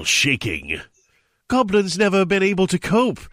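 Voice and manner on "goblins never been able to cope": squealing. Acted. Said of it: "she squealed in exasperation".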